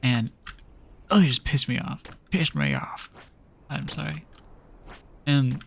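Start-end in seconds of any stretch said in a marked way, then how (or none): 2.3-3.1 exaggerated deep-pitched grumble; mock-angry low voice. Student venting about her examiner, mock-angry low voice. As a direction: drop very low for comic annoyance.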